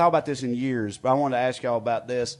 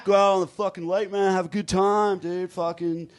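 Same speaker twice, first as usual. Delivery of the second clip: put-on Southern California accent; 3 semitones higher than usual. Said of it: "this is how he sounded".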